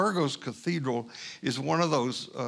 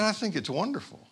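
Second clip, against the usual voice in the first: higher, admiring stranger voice; stranger's voice; 6 semitones higher than usual. Retold or imitated. The stranger admires the altarpiece to the preacher, voiced higher.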